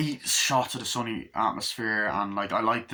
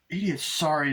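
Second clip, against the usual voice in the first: muttered in throat; 6 semitones higher than usual. Retold or imitated. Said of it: "in their throat".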